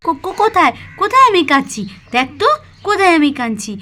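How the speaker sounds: a hint of a caring mother hiding tears; lightly voiced gentle mother. Mala, to her daughter Pakhi, tenderly hiding her tears. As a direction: soothe the child, brush off the crying.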